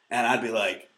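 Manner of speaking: ordinary talk, nothing marked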